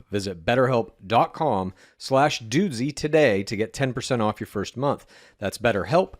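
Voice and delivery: upbeat, evenly paced sponsor read; scripted host-read advert; podcast ad read. Acted. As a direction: sell it clearly, landing the web address. Reads a sponsor ad.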